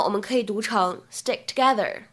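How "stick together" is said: "stick together" with the k in stick held, unreleased; loss of plosion. Shown as a demonstration. Teacher shows students "stick together" with the k unreleased. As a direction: run "stick together" together without popping the k. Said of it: "可以有一个失去爆破的处理".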